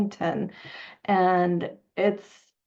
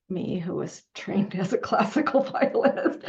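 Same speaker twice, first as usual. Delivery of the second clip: laughing. Real, not acted. Laughs at own training.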